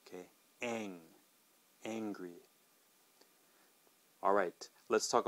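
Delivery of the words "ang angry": "ang" then "angry", softer, flat A as in cat; soft model. Shown as a demonstration. Teacher builds "angry" from "ang" softly. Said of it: "flat A sound like in the word cat".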